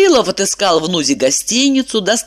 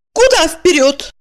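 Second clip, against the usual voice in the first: bewildered; 10 semitones higher than usual. A narrator's reading. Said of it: "Она растерялась".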